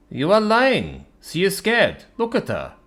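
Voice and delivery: lightly voiced sad dragon; a hint of a mournful dragon. Dragon character voice.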